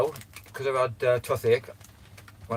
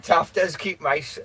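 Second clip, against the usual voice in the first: talking through real laughter, louder and higher; laughing; 5 semitones higher, 5 dB louder, much slower than usual. Real, not acted. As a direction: try to speak while still giggling. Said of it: "I'm sorry I'm laughing".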